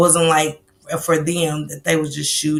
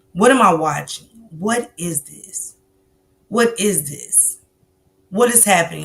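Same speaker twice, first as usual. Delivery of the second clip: retold disbelief. Host retells her reaction to a disturbing video, in disbelief. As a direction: replay your disbelief, drawing out each question.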